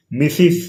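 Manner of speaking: మిసిస్ in two syllables, "mi-siz"; Mrs. pronunciation. Shown as a demonstration. Teacher showing how MRS is read, మిసిస్ as "misiz". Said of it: "అని పలకాలి".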